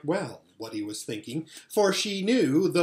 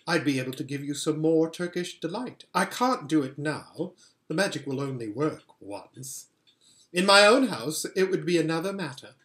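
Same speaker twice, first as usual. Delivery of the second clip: a hint of a sweet, commanding queen; lightly voiced White Witch queen. Queen asking Edmund to bring his siblings, lightly regal. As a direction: coax the boy like a regal enchantress.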